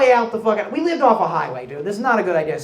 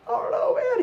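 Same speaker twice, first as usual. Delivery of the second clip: imitating his crying self; 3 dB quieter than usual. Crying kid after the beating.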